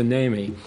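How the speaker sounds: "Naomi" clipped to NAY-mee, two syllables; shortened name. Shown as a demonstration. Pastor showing his own pet form of the name, NAY-mee. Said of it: "I corrupted it to".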